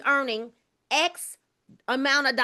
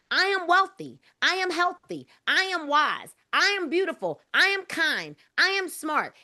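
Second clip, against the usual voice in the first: recited affirmations; 5 semitones higher than usual. Shown as a demonstration. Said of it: "I make Paige say that every single day".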